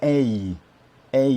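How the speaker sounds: A said as a long English ay; American A sound. Shown as a demonstration. Teacher demonstrates the American A sound. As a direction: stretch the A as in make. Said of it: "l'équivalent le plus proche qui est".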